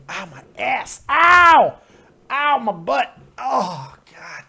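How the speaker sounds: pained yelps after a fall; hurt cries, sudden and loud; tripping and falling. Real, not acted.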